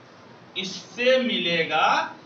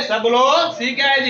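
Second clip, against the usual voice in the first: raised teacher voice calling on the class; louder classroom call; 5 dB louder than usual. Real, not acted. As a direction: call out to the whole room to answer.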